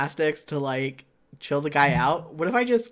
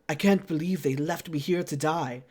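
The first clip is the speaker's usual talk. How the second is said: lightly attempted French Canadian accent; 3 dB quieter than usual. Reluctant player voicing a rescued mercenary, attempted French Canadian accent. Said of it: "in a thick French Canadian accent".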